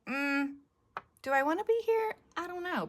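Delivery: high-pitched, hesitant woman's inner voice; unhappy woman. Acted. Crafter voices the woman pictured in her couple, unhappy and unsure. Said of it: "she doesn't look very happy".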